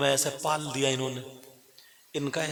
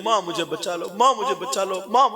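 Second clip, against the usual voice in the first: rising, louder desperate plea; girl screaming for mother; 5 semitones higher, 4 dB louder than usual. A narrator's reading. Preacher to listeners, the girl's second, louder scream. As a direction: cry out to her mother as she is eaten. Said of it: "कह रही है".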